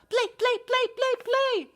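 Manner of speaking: high, eager chanting; excited baby goose. Acted. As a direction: bounce with playtime excitement. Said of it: "cried the excited baby goose".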